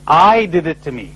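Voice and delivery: I pressed as the one to blame; stress on I. Shown as a demonstration. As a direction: lean on I, falling close.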